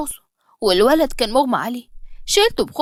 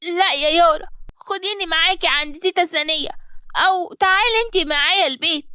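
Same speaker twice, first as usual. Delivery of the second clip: put-on crying child; 5 semitones higher than usual. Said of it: "علي بدأ يعيط".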